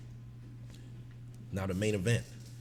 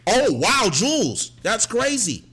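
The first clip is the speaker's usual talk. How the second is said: louder courtside hype calls; loud hype commentary; hype cheering; 3 dB louder than usual. Retold or imitated. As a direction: call it like a game from the bench. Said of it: "I just kept saying".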